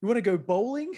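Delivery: high-pitched pestering cousin on the phone; Roman. Retold or imitated. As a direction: wheedle an invitation in a high voice. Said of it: "he'd ring you up and be like".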